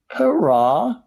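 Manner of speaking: high, loud hurrah; shouted cheer. A narrator's reading. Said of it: "shouted Grandpa Joe".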